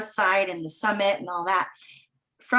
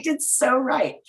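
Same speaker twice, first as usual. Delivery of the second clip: calm second "It's so right", nearer the usual voice; 5 semitones higher, slower than usual. Retold or imitated. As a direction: let "It's so right" land gently, nodding along. Repeating the phrase more calmly.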